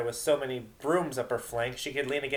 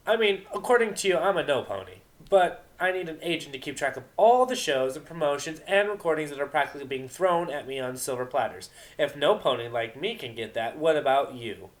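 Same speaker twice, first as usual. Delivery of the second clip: loud, high cocky jab; mocking loud challenge; gloating taunt; 4 semitones higher, 5 dB louder than usual. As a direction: go in for the kill. Vinyl taunting loudly.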